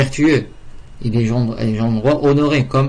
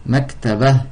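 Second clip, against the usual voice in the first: slow model word; slower than usual. Shown as a demonstration.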